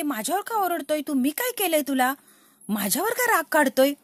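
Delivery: hurt wife voiced. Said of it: "Janhvi म्हणते".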